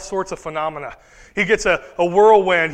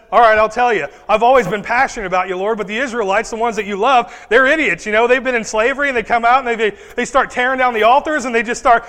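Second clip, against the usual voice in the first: ranting Elijah; 4 dB louder than usual. Acted. Elijah ranting about the Israelites.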